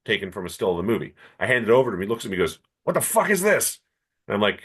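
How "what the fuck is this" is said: high, indignant mock outrage; imitating a cranky old man's outraged snap. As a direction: squawk it like an offended old producer. Friedman angrily reacts to bootleg comic.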